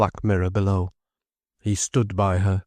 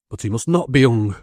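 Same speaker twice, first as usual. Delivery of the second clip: with vehemence; 4 semitones higher, 4 dB louder than usual. Acted. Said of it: "with vehemence".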